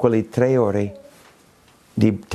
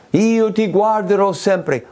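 quoting a hymn; 9 semitones higher, 3 dB louder than usual. Retold or imitated. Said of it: "quando ci sono quei canti".

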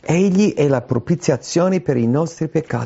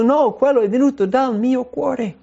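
higher, earnest voice owning the sin; sincere confession; 11 semitones higher than usual. Acted. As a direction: admit it straight from the heart. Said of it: "non vuole confessare". (confessione sincera con voce più alta)

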